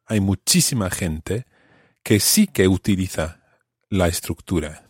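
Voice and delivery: "sí" in "que sí que utiliza" lifted and leaned on; stress on sí. Shown as a demonstration. Teacher breaks down the quote, stressing sí. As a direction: hit "sí" to show the emphasis. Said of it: "to emphasize that verb".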